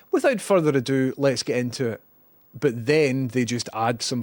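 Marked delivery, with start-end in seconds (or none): 0.1-2.0 YouTuber cliché. Retold or imitated. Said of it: "don't you hate it when YouTube personalities say".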